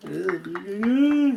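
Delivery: drawn-out wobbly hum rising in pitch; wobbling noise. Pretend. Showing viewers the bobblehead, playful wobbling noise. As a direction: imitate a spring-mounted head wobbling.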